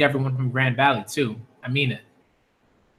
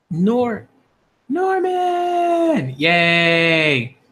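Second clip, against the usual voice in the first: excited call; 4 semitones higher, much slower than usual. Real, not acted. Calling out to the character.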